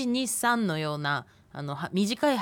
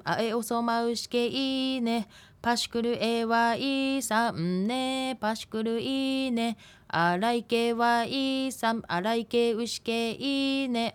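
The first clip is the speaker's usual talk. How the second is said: slow rhythmic recitation; 3 semitones higher, slower than usual. Acted. Recites Ainu word game.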